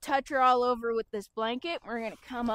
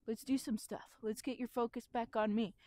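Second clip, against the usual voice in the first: calm reassuring; 5 dB quieter than usual. Shown as a demonstration. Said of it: "I'm just going".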